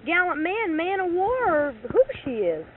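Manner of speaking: angry retort. Retold or imitated. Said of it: "I said".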